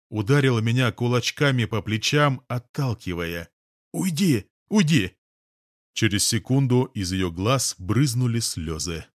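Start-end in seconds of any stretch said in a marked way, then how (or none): 3.9-5.2 much higher, desperate cries; frantic shout. A narrator's reading. Girl beats his shoulders, screaming at him. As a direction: push him off with your voice.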